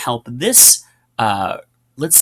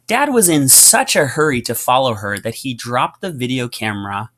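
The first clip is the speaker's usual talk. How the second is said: reading aloud. Shown as a demonstration. Teacher reading Wonder aloud to students, pausing at the comma. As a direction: clear read-aloud with a pause at the comma. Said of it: "So notice how I, I pause there".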